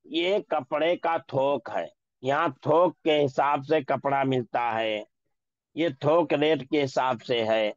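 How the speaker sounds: थोक said with an o sound; slow example. Shown as a demonstration. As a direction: read थोक slowly as thok. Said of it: "यहाँ मजहूल पढ़ा जाएगा".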